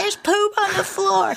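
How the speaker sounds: laughing hard, voice very high. Acting out what the brother said in the hallway: retelling a laughing line. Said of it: "he's laughing his head off because he says".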